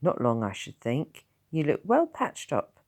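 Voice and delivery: lightly voiced gruff Tom; a hint of a rough old villager; gruff old countryman. Tom's voice in read story.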